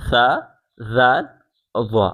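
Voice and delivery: "سا", "زال", "وا" as soft th sounds; lisped, gentle "سا", "زال", "وا"; soft letters. Shown as a demonstration. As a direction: say "سا", "زال", "وا" gently, tongue at the teeth. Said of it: "نرمی کے ساتھ پڑھے جائیں گے".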